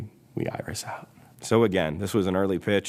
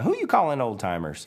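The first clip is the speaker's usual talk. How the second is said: put-on higher, indignant old car character; Lizzie; 8 semitones higher than usual. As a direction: challenge the insult in a raised voice. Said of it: "And she says".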